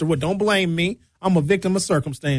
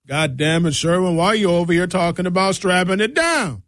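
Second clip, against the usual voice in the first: lightly voiced annoyed old station boss; a hint of a gruff old man scolding; Mister Jones. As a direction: scold Sherwin like an exasperated boss. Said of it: "That's how Mister Jones used to sound".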